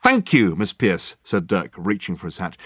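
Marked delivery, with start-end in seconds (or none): 0.0-1.2 grandly grateful. Acted. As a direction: thank her with a theatrical flourish. Dirk grandly thanks before leaving.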